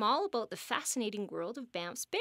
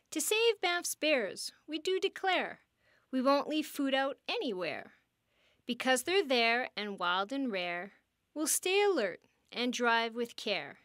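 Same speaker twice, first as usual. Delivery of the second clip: reciting an oath. Shown as a demonstration. Guardian leading visitors in the bear oath, measured solemn recital. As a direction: lead the crowd through the pledge line by line. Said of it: "raise your right hand and repeat after me".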